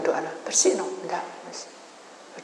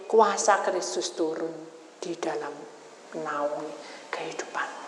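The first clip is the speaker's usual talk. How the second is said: fading to a whisper; 3 semitones lower, 7 dB quieter than usual. Acted. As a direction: let the blessing fade into a hush. Sermon climax fades. (perlahan melemah menjadi bisikan)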